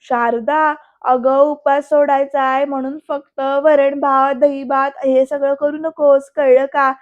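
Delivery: loud, drawn-out mock bossiness; slow, emphatic imitation of granny's orders; mimicking Nani's orders. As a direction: copy a demanding granny, stretching the words. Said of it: "नानींची copy करते ही मना".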